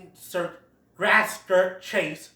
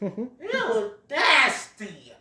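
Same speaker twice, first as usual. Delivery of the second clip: higher mock disgusted ew, nasty; 5 semitones higher, 3 dB louder, much slower than usual. Imitating a character recoiling, mock disgust. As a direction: recoil at something gross.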